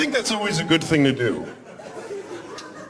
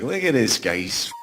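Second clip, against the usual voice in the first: mocking kitchen staff; 2 semitones higher than usual. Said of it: "Everybody's like".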